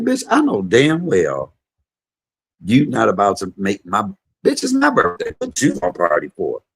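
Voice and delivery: high, loud bossy mama scolding; Michael Ann scolding. Retold or imitated. Mom telling her son to honor her birthday, high and bossy. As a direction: lay down the law like a sassy mother. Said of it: "y'all know how Michael Ann talked to me".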